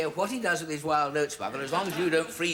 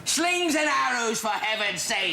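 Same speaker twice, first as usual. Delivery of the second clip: exasperated prompt; 8 semitones higher, 3 dB louder than usual. Acted. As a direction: hiss the line at the forgetful actor. Prompter exasperated feeding line.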